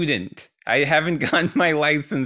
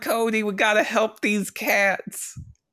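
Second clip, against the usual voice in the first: yelling, shouting with a higher pitch; 6 semitones higher than usual. Acting out a game scene, calling to cody for help: yelling in character. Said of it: "I'm just yelling, I'm yelling".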